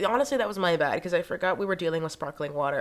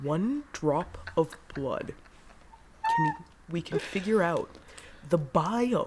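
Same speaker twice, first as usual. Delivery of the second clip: dropped, deliberate, measured voice; 4 dB quieter than usual. Playing along with the joke: Elizabeth Holmes voice. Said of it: "it's giving Elizabeth Holmes for sure".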